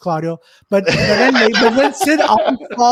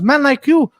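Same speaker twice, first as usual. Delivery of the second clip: raised, louder mock scolding; acted scornful roast; 4 semitones higher, 5 dB louder than usual. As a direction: imitate an owner tearing into someone. Owner roasting man counting money.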